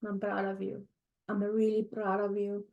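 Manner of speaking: quiet, holding back tears; choked up and softly proud; real tears close in the voice; tearful. Real, not acted. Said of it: "I didn't want to cry".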